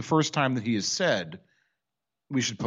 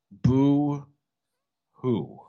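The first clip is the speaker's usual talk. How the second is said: mock boo-hoo; 3 dB louder than usual.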